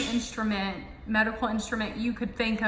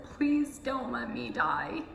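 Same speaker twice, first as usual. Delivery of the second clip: pleading; 2 semitones higher, 3 dB quieter, slower than usual. Retold or imitated. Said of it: "I said".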